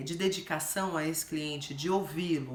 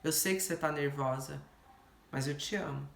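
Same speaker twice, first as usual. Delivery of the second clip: tender; 4 semitones lower, 4 dB quieter than usual. Pretend. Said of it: "olhar no olho dela e falar assim".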